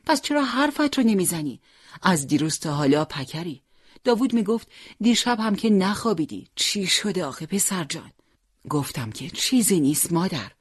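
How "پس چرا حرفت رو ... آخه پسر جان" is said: higher, anxious mother coaxing her son; lightly voiced mother asking what's wrong; worried mother. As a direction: press him gently like a fretting mother.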